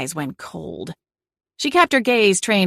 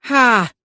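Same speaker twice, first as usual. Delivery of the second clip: breathed ha; 6 semitones higher, 5 dB louder than usual. A narrator's reading. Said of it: "Aunt Lavender breathed".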